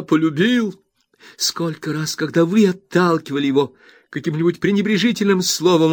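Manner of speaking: Rosa, furious. A narrator's reading. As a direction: hammer each word into the mother. Rosa recalls his love. (Роза в ярости бросает обвинение матери)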